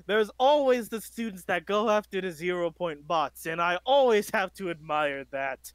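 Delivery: loud, beaming hero speech; pompous vain hero. Acted. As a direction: address the students proudly. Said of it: "as he begins to speak".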